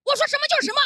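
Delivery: high, loud, vicious retort. Retold or imitated. Senior crew member snapping at her, vicious and loud. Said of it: "恶狠狠地说".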